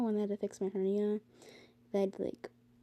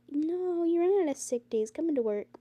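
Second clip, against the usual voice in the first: mock boss; 7 semitones higher, 5 dB louder than usual. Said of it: "They're like".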